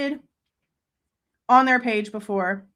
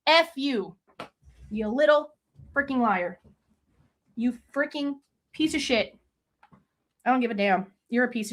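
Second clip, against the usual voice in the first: real fury. Real, not acted. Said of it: "I'm so mad".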